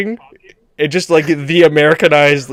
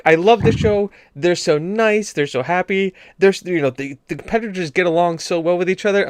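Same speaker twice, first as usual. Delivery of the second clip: mom; 4 semitones higher than usual. Retold or imitated. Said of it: "my mom was like".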